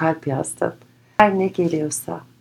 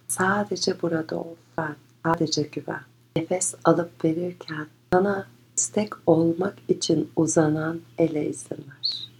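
guided meditation; 4 dB quieter than usual. Acted. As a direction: guide them gently inward.

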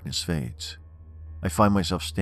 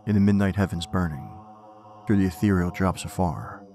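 poem recitation. Acted. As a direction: recite it with dark gravity.

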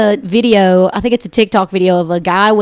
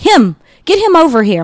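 imitating mom; 7 semitones higher, 3 dB louder than usual. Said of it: "she was like".

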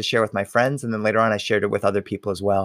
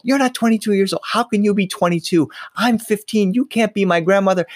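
playful protest; 8 semitones higher than usual. Retold or imitated. Arguing playfully with grandmother.

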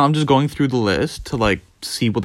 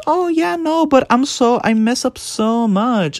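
high, whiny mock distress; put-on high voice, drawn out at the end; mimicked self-doubter; 11 semitones higher, slower than usual. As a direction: imitate someone fretting over mistakes, pitched way up.

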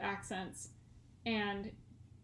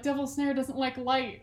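light British accent, R dropped on "Snare"; casually put-on British accent; 3 semitones higher, 3 dB louder than usual. Shown as a demonstration. Another Hermione line used as warm-up, British accent. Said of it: "get yourself into the accent".

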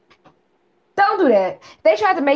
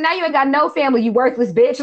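mock harsh parents; 5 semitones higher than usual. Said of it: "they said".

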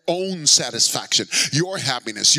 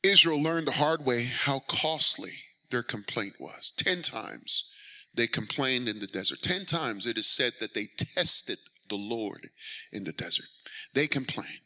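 much softer, lower, grave telling; quiet; 6 semitones lower, 5 dB quieter than usual. Real, not acted. Preacher softly recounting Israel's complaints, solemn. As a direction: bring it right down, solemn. Sudden drop after the prayer.

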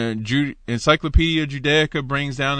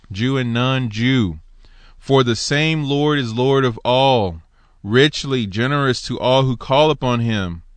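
louder, emphatic reading of the verse; scripture reading; 4 dB louder than usual. Acted. Preacher reads Romans ten nine to his congregation, loud and emphatic. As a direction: proclaim it to the room.

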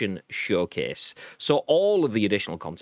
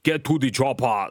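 lightly voiced Austrian action hero; a hint of Arnie's accent; Arnold Schwarzenegger impression; 3 semitones higher, 3 dB louder than usual. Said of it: "That's not what Arnold Schwarzenegger sounds like".

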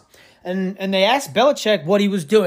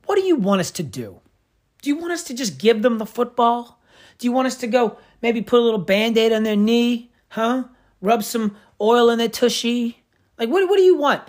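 sarcastic ranting coach, pitch climbing; mock coach to reporter; 3 semitones higher than usual. Host paraphrasing the coach to a reporter, mock exasperation. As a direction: ham up a fed-up coach mocking the press. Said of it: "In other words, telling the reporter".

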